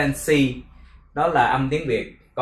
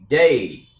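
"day" pushed louder without raising the pitch; level stressed DAY; 5 dB louder than usual. Shown as a demonstration. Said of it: "âm ngang thôi mà". ("day" âm ngang, nhấn mạnh)

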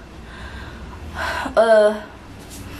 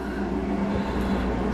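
breathless sigh; 8 dB quieter than usual. Real, not acted. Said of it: "I'm out of breath".

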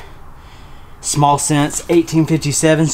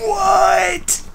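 much higher, shocked squeal of disbelief; stunned what. Real, not acted. Vlogger finds a 1988 shirt of a singer, high shocked shriek.

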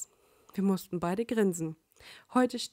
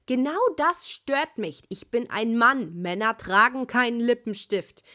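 annoyed complaint; 3 semitones higher, 7 dB louder than usual. Acted. Sasuke complains about lipstick.

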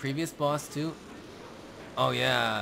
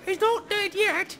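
silly high voice; 3 dB louder than usual. Pretend. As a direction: squeak it like a Python sketch. Monty Python quote voice.

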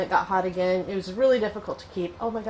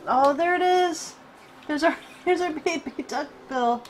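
delighted exclamation; 7 semitones higher than usual. Real, not acted. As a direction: greet the new hatchling. Second egg hatching.

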